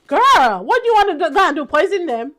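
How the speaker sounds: put-on exasperated high-pitched girl what do you want; mock disbelief, voice jumping up; sassy exasperated retort; incredulous.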